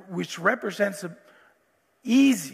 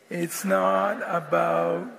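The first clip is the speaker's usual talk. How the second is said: put-on broad singsong kids theatre; 4 semitones lower, much slower than usual. Shown as a demonstration. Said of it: "Can you say it with me?".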